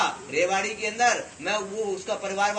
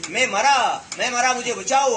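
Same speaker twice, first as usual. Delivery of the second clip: loud panicked cry for help; 3 semitones higher, 5 dB louder than usual. Retold or imitated. Storyteller voicing a choking man, loud cry for help. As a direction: yell it like a man who can't breathe. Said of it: "तो चिल्लाने लगा जोर जोर से".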